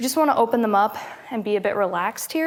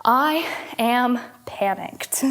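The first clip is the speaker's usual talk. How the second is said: slow calm affirmation; much slower than usual. Shown as a demonstration. Yoga teacher leading a repeat-after-me affirmation, slow and calm. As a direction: say it slowly for them to repeat. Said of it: "I would like you to repeat after me".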